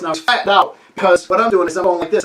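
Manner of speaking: ordinary talk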